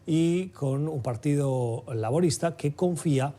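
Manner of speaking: measured news-anchor delivery, lifting key phrases; news read. Acted. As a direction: present the headline story to listeners, deliberately paced. Reads the news intro. (lectura de noticiero)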